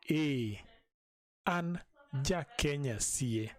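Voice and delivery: normal talking voice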